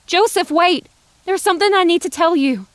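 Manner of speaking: high, loud urgent call; breathless shout after him. A narrator's reading. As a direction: stop him before he leaves. Dinah calls after him.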